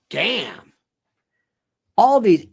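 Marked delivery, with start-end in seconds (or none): 0.1-0.7 low, awed mutter of Damn; a hint of an impressed Italian leader; awed Meloni. Meloni watching Trump, quietly awed: mild mock awe. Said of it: "Maloney's thinking".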